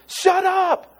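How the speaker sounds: sudden loud, high snap; explosive "Shut up!" rebuke; harsh rebuke. Retold or imitated. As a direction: bark it at the storm. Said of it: "a better translation is just".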